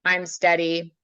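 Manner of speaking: slow, steady and easy; like telling a horse you're there, unhurried; calm and steady. Retold or imitated. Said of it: "were like".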